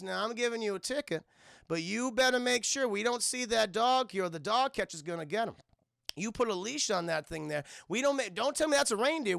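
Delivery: lightly voiced small-town Southern cop; Southern police officer. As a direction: give a mild mock-officer warning. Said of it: "And you get this police officer".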